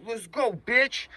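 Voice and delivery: high, drawn-out push to move; retold urging. Thief pulling his partner away, high drawn-out urging. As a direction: hurry your partner along, stretching the words.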